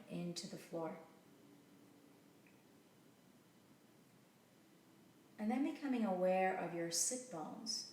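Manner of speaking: calm meditation guide with long pauses; unhurried, settling guided-relaxation delivery. Real, not acted. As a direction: ease them down gently, leaving space between phrases.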